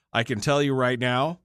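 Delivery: talking through a yawn; words stretched by a yawn. Real, not acted. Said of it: "I just yawned again".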